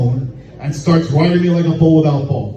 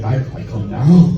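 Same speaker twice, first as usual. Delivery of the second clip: confused question; 4 semitones lower than usual. Retold or imitated. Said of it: "And I was like".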